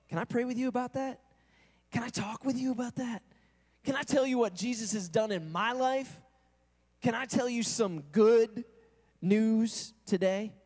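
lightly voiced eager believer; eager offer. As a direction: offer it brightly like a keen friend.

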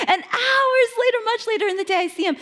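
high, loud laugh with tears; tearful laugh. Real, not acted. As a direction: let the tears break into the laugh. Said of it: "laughing, tearful".

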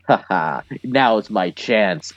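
mock villain gloat. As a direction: gloat like a cartoon villain plotting. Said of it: "Tanner's just like".

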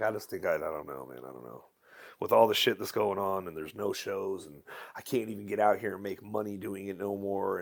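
low, quiet and worn down, trailing off; dejected confession. Retold or imitated. Telling his wife he might quit, quiet and defeated. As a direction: sound defeated, barely getting the words out. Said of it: "I had the conversation with my wife".

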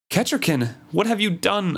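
acted dismay, pitch leaping high; dismayed cry. A narrator's reading. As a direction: cry it out in alarmed disbelief, without shouting. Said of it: "I cried in dismay".

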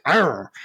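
playful rolled "arr" growl; short imitated growl of appetite; appreciative growl. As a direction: growl it like admiring a hunk. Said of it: "look at them and be like".

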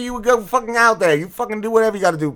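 shrill-high, loud mock outburst; high mock yell. Prank caller yelling at his whining friend in a mock tantrum.

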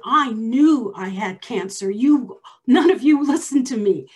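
angry accusation. Retold or imitated. Patient telling the doctor off, rising anger. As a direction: hammer home that nobody listened. Confronting the doctor who ignored her.

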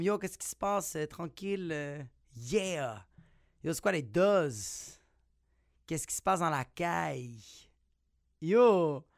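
put-on mild Montreal immigrant street accent; laid-back immigrant-youth French, lightly put on; immigrant-slang accent. Greeting immigrant friends, relaxed immigrant street accent. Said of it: "quand j'étais avec mes amis, euh, un peu immigrantes, je parlais comme".

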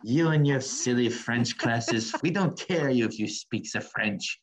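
slow, put-on French accent, dismissive; mock French accent. Mocking Quebec locals to her friend, in a slow put-on French accent. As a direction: ham up a haughty French accent. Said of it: "it's almost like they're like".

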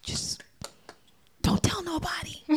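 playful conspiratorial whisper; whispered secret. Pretend. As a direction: lean in and whisper it. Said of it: "Can I tell you a secret?".

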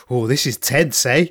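imitated South African dad; South African accent. Dad watching his kid's putt, South African accent. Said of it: "in his South African accent".

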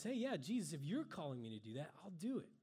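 lightly acted eager reply, starting high; eager Peter. Preacher voices Peter agreeing to walk on water, eager. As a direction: jump in as a keen volunteer.

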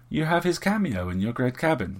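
lightly affable, lifted in pitch; affable reply. A narrator's reading. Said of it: "was her affable response".

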